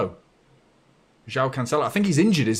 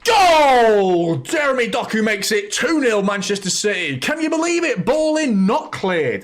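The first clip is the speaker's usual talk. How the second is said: much higher, much louder screams with laughter; screaming goal celebration; 7 dB louder, slower than usual. Real, not acted. Fan screaming in joy as City score twice. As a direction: lose it completely as the ball goes in.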